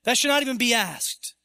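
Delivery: mildly imitated angry teacher; mad teacher. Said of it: "the teacher got mad at him".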